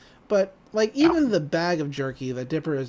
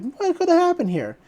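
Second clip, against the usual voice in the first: cop voice; 12 semitones higher, 4 dB louder than usual. Retold or imitated.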